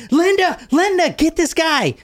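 high, frantic cries for Linda; mock panicked scream. Retelling the victim's cries, frantic and high. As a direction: yell for help in a high voice. Man screaming for help in house.

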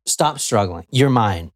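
captor calmly owning his victim. Acted. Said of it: "It's just very calm".

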